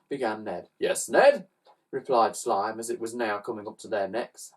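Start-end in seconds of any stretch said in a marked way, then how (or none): 0.8-1.5 a lightly higher creature voice; Slime's voice. A narrator's reading. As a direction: answer eager to help. Slime answers Ned.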